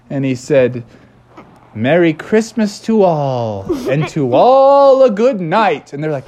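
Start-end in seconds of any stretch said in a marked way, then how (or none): 1.7-5.9 slow, booming, rising Santa farewell; jolly Santa. Acted. E T flying off, booming slow Santa goodbye. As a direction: slowly wish everyone goodnight like Santa.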